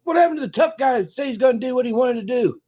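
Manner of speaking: fast, mocking through laughter; laughing while talking. Real, not acted. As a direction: laugh at him as you say it. Commentator mocking arrested man.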